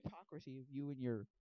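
a squeaky, whiny comeback; mock the father as a hypocrite; bratty kid. Young Wonka talks back to his dentist dad, whiny.

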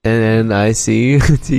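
spelling out letters. Shown as a demonstration. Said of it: "Keep going".

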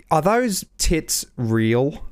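put-on slow, blunt Aussie surfer accent; Australian accent. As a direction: ask it slowly, Aussie-style. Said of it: "Australian bloody surfer".

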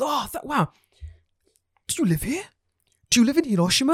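high, startled mock apology; tourist's apology. Tourist in the road apologising in a high, sheepish mock voice. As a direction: squeak out a sheepish sorry. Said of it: "he goes".

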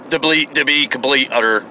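talking through hiccups; words broken by hiccups. Real, not acted. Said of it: "I get the hiccups all of a sudden".

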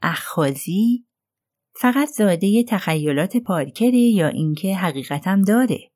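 mildly excited, hanging on the word اخاذی. Acted. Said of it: "سخت به هیجان آمده بودم پرسیدم".

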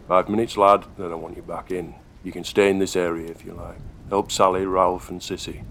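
put-on brisk, firm older workman; gruff foreman. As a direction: lay down the terms, brisk and stern. Foreman gives orders.

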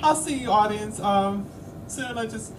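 very high, squeaky mock crying; tearful farewell. Host signing off to audience needing a tissue, mock-tearful. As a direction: sob through the goodbye with gasps, hammed up. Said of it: "I need a tissue".

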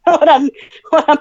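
laughing through the words; giggling, trying to hold it together. Real, not acted. Holding back laughter at water spill.

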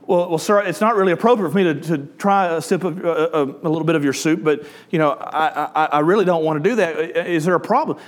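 hesitant waiter, fumbling for words; reluctant waiter. Acted. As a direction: hedge and stumble through an awkward no. Joke's waiter reluctantly refusing the rabbi.

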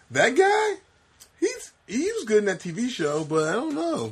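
high mock voice of doubt. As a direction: squeak it out in disbelief. Retelling own reaction in mock voice.

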